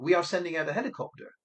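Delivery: brisk, even delivery through "helicopter"; statement intonation. Shown as a demonstration. Operator informs Lucy help is coming, as a statement. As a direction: state "sending out a helicopter" quickly as fact. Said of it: "that could come out as a statement".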